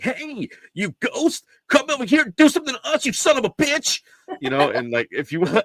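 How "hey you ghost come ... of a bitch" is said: very high, put-on provoking shout, taunting. Retelling a ghost show host taunting ghosts: imitating Sham Burris yelling. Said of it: "and he's yelling".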